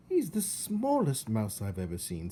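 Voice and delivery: lightly voiced disapproving aunt; a hint of a sniffy old aunt; Aunt Florence. Aunt judging her tiny nephew, lightly sniffy. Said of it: "said his Aunt Florence".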